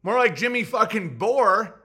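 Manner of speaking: loud, jeering cop voice; mocking cop. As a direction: taunt him like a smug cop. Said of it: "the cop's gonna go".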